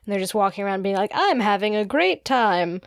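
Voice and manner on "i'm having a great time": lightly voiced, slow dazed vacationer; slow, drawn-out mock trance; mesmerized passenger. Mesmerized passengers walking around on the ship, lightly voiced dazed drone. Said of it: "they're not fully with us".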